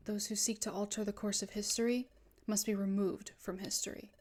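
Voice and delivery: low-key, soft-spoken sinister servant; obedient villain. Acted. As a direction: report to your master with cold, measured deference. Voices villain reporting to Master Dialga.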